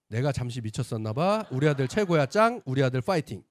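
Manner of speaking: loud, excited cheering mother; mother's gushing text. Retold or imitated. Son reading his mother's cheering text, loud and excited. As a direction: cheer the son on like a proud mom. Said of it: "이렇게 하고 보낸 거예요".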